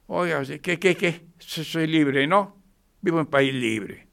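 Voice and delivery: acted defiant bully. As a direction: bristle and threaten like a street tough. Acts out rude defiant citizen.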